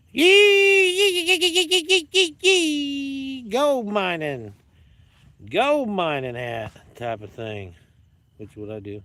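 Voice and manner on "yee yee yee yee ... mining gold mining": very high, loud, stretched cowboy hollering yee; Yosemite Sam yee-haw. Pretend. Showing off his hat, he hollers like Yosemite Sam. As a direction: whoop it up like a cartoon prospector. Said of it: "or you can do the Yosemite Sam".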